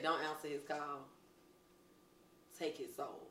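Miss Piggy quote. Retold or imitated. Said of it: "Miss Piggy said".

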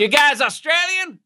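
lightly voiced curious driver; imitating an Uber driver. Uber driver quizzing his passenger, mock American voice. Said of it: "every Uber driver".

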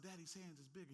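preacher quietly voicing what the listener should tell themselves; quiet reassurance. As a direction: tell yourself gently. Quiet self-talk after preaching.

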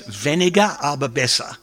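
weniger, aber besser said in a German accent, apologetically; a hint of German accent on "weniger, aber besser"; German phrase. Shown as a demonstration. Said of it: "Pardon my German accent".

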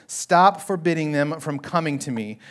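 stern instruction to followers; commanding. Acted. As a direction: order them to stop, leaning on the first word. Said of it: "Jesus is commanding the disciples".

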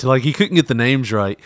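ordinary talk

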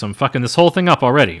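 hurried inner thought. Acted. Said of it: "Rick thinks".

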